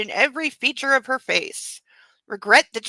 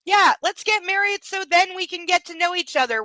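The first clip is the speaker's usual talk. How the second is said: mocking the husband; 7 semitones higher than usual. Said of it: "what was it he said".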